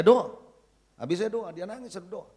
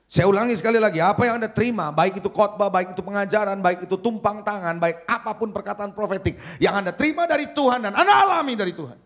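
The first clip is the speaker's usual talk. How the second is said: insistent list building to a peak; emphatic preaching; 8 dB louder than usual. Real, not acted. Preacher repeating the point about receiving from God, emphatic and building. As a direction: drive each item home, swelling at the end.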